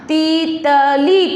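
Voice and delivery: तीतली split slowly into ती...त...ली; syllable by syllable. Shown as a demonstration. Teacher blending a word for pupils, syllable by syllable. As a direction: draw out each syllable of तीतली. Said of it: "शब्द क्या बना अपना?".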